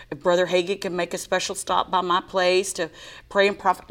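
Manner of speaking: ordinary delivery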